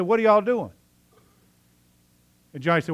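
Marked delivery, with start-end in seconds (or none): 0.0-0.7 high, loud what-is-going-on; surprised teacher. Retold or imitated. Teacher walks back in on huddled kids, loud surprised. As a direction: catch the kids in the act.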